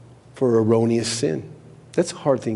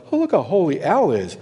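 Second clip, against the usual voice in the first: mock boast; 4 semitones higher than usual. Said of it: "I'm not saying that like".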